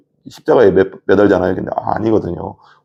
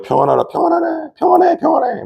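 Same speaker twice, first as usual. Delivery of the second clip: very high-pitched singsong mockery; mocking jeer. Soldiers mockingly hailing the king of the Jews, jeering. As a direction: chant it derisively in a squeaky-high voice. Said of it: "막 이러면서 막 조롱하는 거죠".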